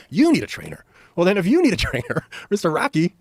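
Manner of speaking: high, loud teasing Stallone voice; hammed-up movie star ribbing a friend; mock Stallone. Stallone mocking him.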